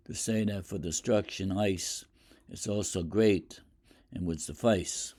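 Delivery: measured poetry recitation; poem reading. Acted. Teacher reading Fire and Ice to the class, measured recital. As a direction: read the poem aloud, letting each line land.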